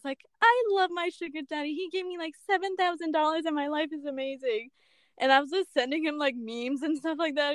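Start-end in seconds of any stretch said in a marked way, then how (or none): 0.4-4.7 lightly mimicked gushing testimonial; mock grateful sugar baby; fake testimonial. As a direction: recite a fake endorsement in higher pitch. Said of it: "fake videos".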